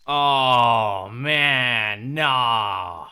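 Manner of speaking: loud, recoiling outburst; a loud oh man no at the roaches; disgusted shout. Real, not acted. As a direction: yell in real disgust. Reacting to roaches in the game.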